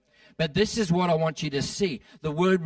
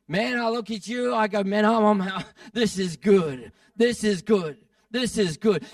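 higher voice, acted delight with a laugh; happy, delighted God; 5 semitones higher, 3 dB louder than usual. God looking at you and seeing good, delighted. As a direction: play God chuckling with pleasure at people.

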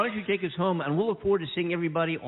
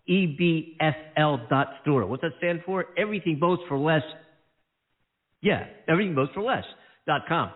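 ad read. Acted. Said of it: "How was that?".

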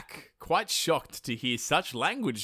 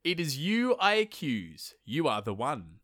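reciting the speech. Acted.

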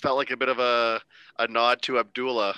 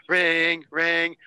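imitated phone ring; 5 semitones higher, 4 dB louder than usual. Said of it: "Jimmy Hart does Eat Your Heart Out".

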